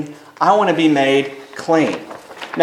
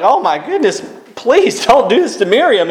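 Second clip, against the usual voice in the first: pleading; 6 semitones higher than usual. Retold or imitated. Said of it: "he's pleading with Moses".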